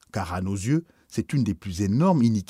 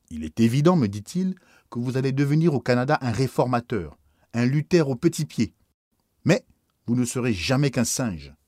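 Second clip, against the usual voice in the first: louder, scornful angry bishop; beside himself; 3 semitones higher, 4 dB louder than usual. Acted. Bishop beside himself, mocking the priest as a would-be Luther. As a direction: sneer down at the upstart priest. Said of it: "mon évêque était hors de lui-même".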